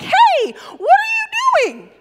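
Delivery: a high, loud, hammed-up toddler shout, stretched slow; mock toddler yell. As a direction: yell like a little kid bossing his cousin. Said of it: "he begins to yell at him".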